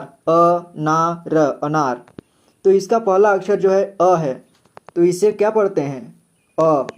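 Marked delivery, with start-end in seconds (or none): 0.0-2.1 अ, ना, र said apart, then अनार joined up; syllable by syllable; spelling out by syllable. Shown as a demonstration. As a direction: break अनार into its parts for a child. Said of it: "तीन अक्षर से मिलकर बना है".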